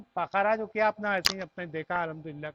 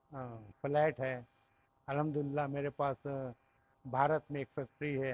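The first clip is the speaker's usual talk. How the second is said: mock boaster; 6 semitones lower, 5 dB quieter than usual. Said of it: "तो मैं खुद कर रहा हूँ".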